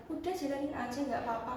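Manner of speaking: soft, lightly voiced comfort; hushed gentle reassurance; retold sibling reassurance. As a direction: imitate an older sibling soothing, quietly. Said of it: "saya diginikan kakak saya".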